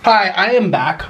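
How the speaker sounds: huffing and puffing from spice; panting a little between words; out of breath. Real, not acted. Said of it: "I am huffing and puffing".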